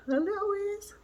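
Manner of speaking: soft, high-pitched coo over something tiny. Real, not acted. Showing viewers the doll's little ears, cooing.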